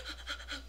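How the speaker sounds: mock star-struck gasp. Fan sees the star walk in, quiet gasp.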